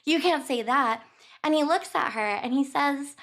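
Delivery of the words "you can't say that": annoyed. Retold or imitated. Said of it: "getting annoyed and shrugging it off".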